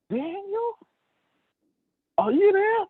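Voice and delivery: high calling out to the den; king calling out. Retold or imitated. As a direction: call down high into the lions' den. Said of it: "This motor scooter said".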